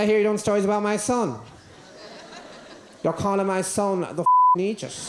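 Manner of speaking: indignant mother. Retold or imitated. Mother confronting the comic about her son, indignant. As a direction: play an affronted mother telling someone off.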